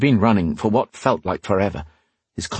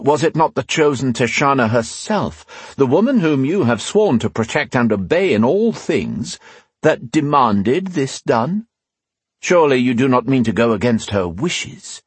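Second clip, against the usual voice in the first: calm rebuke inquisitor; 6 semitones higher, 3 dB louder than usual. A narrator's reading. Leader rebukes captain.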